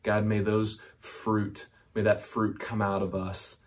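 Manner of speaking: hushed prayer for the congregation. Real, not acted. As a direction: pray gently and humbly. Closing prayer.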